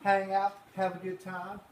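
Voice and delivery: hammed-up diner cook rushed off his feet; Earl the cook. Teacher as cook Earl takes the kids' orders, hammed up.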